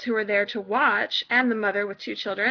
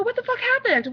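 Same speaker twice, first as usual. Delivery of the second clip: mock angry parent; 10 semitones higher than usual. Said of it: "you come back to me and go".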